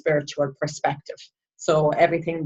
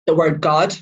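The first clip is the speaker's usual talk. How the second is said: God set apart after a pause and said firmly; stress on God; 4 dB louder than usual. Real, not acted. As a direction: lean weightily on the word God. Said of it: "I will stress".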